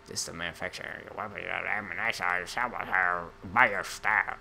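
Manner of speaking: fast, lightly voiced ad read; mock announcer read. Gamer reading game text, lightly mocking announcer. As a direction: rattle it off like a promo. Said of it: "I don't know why I'm talking like that".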